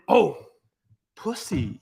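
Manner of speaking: ordinary talk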